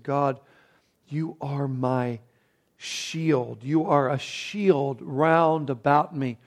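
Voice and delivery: soft, slow, reverent reading of a prayer; quiet prayer. Retold or imitated. Preacher quoting David's trust in God softly and slowly. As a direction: pray it gently, unhurried.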